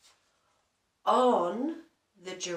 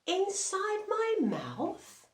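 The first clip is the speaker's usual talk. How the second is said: high, slow puzzled question; surprised lion; 12 semitones higher, slower than usual. Acted. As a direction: sound amazed at the odd request. Lion asked to look in mouth.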